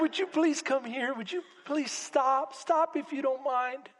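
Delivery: mock-polite parent, held back; polite, gentle request. Parent to a child near a busy parking lot, gently polite. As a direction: ask nicely, with no urgency at all. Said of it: "You're gonna yell at the top".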